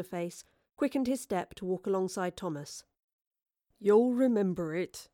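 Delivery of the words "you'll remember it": reassuring. Acted. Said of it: "he told him in a reassuring voice".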